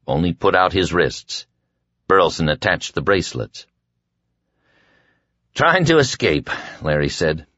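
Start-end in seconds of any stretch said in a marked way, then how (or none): 5.5-6.5 high-pitched mocking echo; mocking repeat. A narrator's reading. Prisoner throws the excuse back at his guard, mocking. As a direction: lift it high, as a taunt. Same words, later said mockingly.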